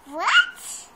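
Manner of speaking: high, loud startled question; shocked what. Real, not acted. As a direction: blurt it out in disbelief. Child shocked by answer.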